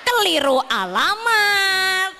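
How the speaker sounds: a touch of hammed-up sobbing; half-joking tearful lament; mock crying. Preacher mock-weeps over the misdirected tears, mock crying.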